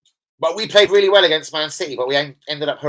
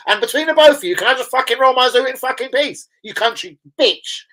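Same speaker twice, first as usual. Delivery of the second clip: high, louder retold rant; mock angry outburst; 8 semitones higher, 5 dB louder than usual. Retelling how he snapped at the villager, higher and louder. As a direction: blow up at the nosy local.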